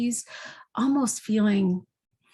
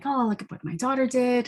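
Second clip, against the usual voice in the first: higher, light proud-mother lilt; proud mom; 5 semitones higher than usual. Retold or imitated. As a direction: show off her daughter, beaming. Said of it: "the mom's all proud and she's happy".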